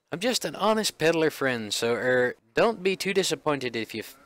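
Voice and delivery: put-on peddler in a light Scottish accent. Honest peddler placating the inspectors, light Scottish accent. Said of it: "why'd I give him a Scottish accent?".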